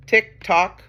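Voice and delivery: loud, high, separated tick and tock; clock ticking. Acted. Reader reviewing the clock with children, ticking beat. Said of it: "That was the clock".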